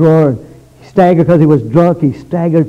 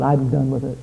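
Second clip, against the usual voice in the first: quiet resolve; 2 semitones lower, 6 dB quieter than usual. Retold or imitated. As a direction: say it softly, as a settled decision. Quiet first take of young man's vow.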